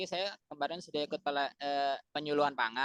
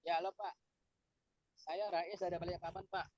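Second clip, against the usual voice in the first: faint choppy call audio; glitching audio; 3 semitones higher, 9 dB quieter than usual. Real, not acted. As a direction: voice dropping out on a bad line. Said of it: "dengar suaranya".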